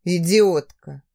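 slow, low contemptuous mutter; low looming threat. Acted. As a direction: drag out the insult. Stranger continues contempt.

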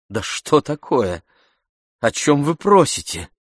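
rising in agitation, a touch of vexation; взволнованно, с досадой; agitated, half annoyed. Acted. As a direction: brush him off with nervous annoyance. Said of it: "С волнением, почти с досадой".

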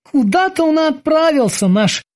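sleepy mumble. A narrator's reading. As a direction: mumble it through a yawn. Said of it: "зевая, пробормотал". (сонное бормотание сквозь зевок)

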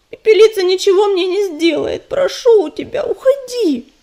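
high, pleading cry. A narrator's reading. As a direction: beg her to go, voice rising. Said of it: "взмолилась Листвичка".

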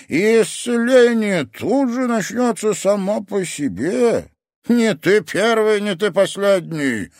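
very high, loud, slow lecturing; instructive sensei. Acted. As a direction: drill the lesson in.

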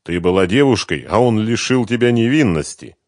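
cold, merciless sarcasm; ruthless. Acted. Renat mocks Svetlana, ruthless and cold. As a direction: cut her down without pity. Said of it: "безжалостно произнёс Шарипов".

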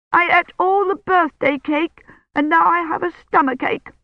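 put-on high little-girl voice, whiny; a small child complaining of a tummy ache; childish voice. A narrator's reading. Delirious old woman tells Daddy about the cake, high childish whine. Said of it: "in a childish voice".

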